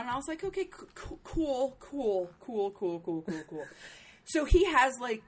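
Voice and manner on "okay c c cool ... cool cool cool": fake nonchalance. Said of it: "nonchalantly moved on".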